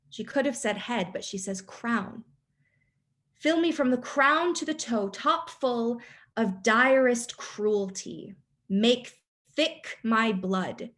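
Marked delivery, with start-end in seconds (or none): 3.4-10.9 slow regal command. Acted. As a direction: summon the dark spirits like a queen. Teacher reciting Lady Macbeth's speech.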